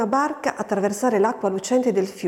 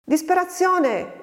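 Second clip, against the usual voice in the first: high, long-drawn yell of the name; yelled call; 10 semitones higher, slower than usual. A narrator's reading. Farmhand yells for the girl to come, yelled call. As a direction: yell the name out, stretched, without full volume. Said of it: "urlò Francesco".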